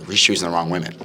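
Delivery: ordinary delivery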